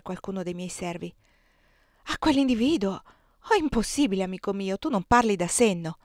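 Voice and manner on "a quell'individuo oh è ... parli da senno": mildly incredulous protest; a touch of dismay; shocked disbelief. Acted. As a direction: react in disbelief, pitch jumping at first. Wife shocked at husband's news.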